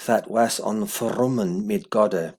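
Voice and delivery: put-on slow, careful Old English recitation; Old English reading. Shown as a demonstration. Teacher reading verse one aloud in Old English. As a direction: read each Old English word out slowly. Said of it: "second verse".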